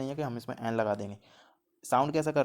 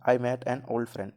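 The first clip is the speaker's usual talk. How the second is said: slow example reading; much slower than usual. Shown as a demonstration. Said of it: "next है हमारा".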